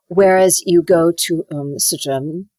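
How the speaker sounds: German accent held inside the mouth; coach's demo of German-accented English. Shown as a demonstration. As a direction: demonstrate a private, closed-jaw German accent. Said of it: "you're talking with the German accent".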